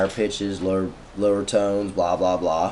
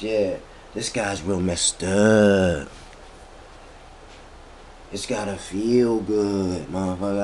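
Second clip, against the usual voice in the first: very slow, laid-back hippie drawl; 2 semitones lower, slower than usual. Pretend. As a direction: draw it out, mellow and spaced out. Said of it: "in this hippie voice".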